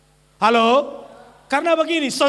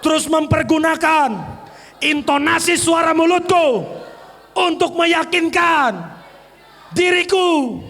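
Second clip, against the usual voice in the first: firm, raised voice; loud declaration; 2 semitones higher than usual. Shown as a demonstration. Preacher leads congregation in loud declaration. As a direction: proclaim it boldly.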